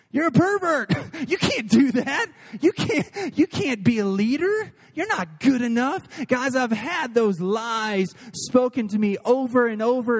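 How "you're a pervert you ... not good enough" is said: higher-pitched mock accuser, half laughing; lightly voiced taunting voice of self-doubt; accusing inner voice. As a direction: needle them as a mocking little voice in the head. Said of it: "you hear this voice that says".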